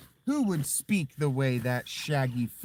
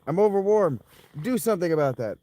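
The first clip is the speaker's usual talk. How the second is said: loud, higher complaining voice; mock body complaint, louder; the body's voice; 4 semitones higher, 6 dB louder, faster than usual. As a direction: whine like an overheated body. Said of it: "the body's like".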